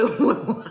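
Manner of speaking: short loud laugh mid-telling. Real, not acted. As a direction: burst out laughing briefly. Tickled by the story.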